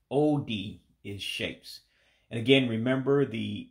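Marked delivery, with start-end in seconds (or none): 0.1-0.8 O D with a long oh, then a sharp dee; Igbo pronunciation. Shown as a demonstration. Teaching viewers the Igbo word for shapes, careful pronunciation. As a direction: say O D as two drawn-out syllables, oh-dee. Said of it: "that's why you hear me saying O D".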